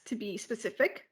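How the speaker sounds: a quick, voiceless whisper tacked on; whispered aside. Real, not acted. Narrating a ride, she whispers a cheeky aside. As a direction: drop to a secret whisper for the punchline.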